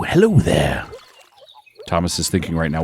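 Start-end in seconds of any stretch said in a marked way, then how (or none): 0.0-0.9 hesitant high hello; nervous goat greeting. Shown as a demonstration. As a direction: greet it timidly. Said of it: "H-, hello".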